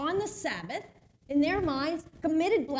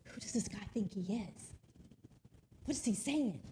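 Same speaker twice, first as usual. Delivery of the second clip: muttering doubters in the crowd; grumbling; 7 dB quieter than usual. Retold or imitated. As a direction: grumble it under your breath like a doubting crowd member. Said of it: "there was a lot of grumbling".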